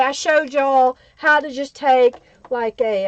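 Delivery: talking through sudden hiccups. Real, not acted. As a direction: speak with hiccups catching the words. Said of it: "I got the hiccups all of a sudden".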